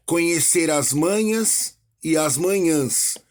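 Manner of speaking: slow reading, contrasting "manhas" and "manhãs", "massas" and "maçãs"; teacher reciting song lyrics slowly for the class; slow, careful recitation. Shown as a demonstration. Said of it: "Por exemplo".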